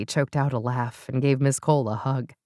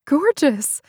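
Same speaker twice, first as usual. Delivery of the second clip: breathy; 10 semitones higher, 4 dB louder than usual. Acted. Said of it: "Paula breathed".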